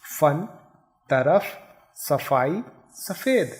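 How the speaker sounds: "सफ़ेद" with an f sound; each word with a clear f, not ph; nukta फ़ demo. Shown as a demonstration. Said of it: "उच्चारण देखिए".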